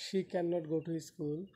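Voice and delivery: very slow, word by word; teacher reading the main clause slowly; slow demo. Shown as a demonstration. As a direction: lay out each word slowly. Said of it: "উচ্চারণ হবে শেষ থেকে".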